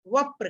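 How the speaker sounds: वप्र said as "vap-pra", प closing the first syllable; joined conjunct. Shown as a demonstration. Teacher answering his own question, वप्र joined as vap-pra. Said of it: "क्या बोलना है".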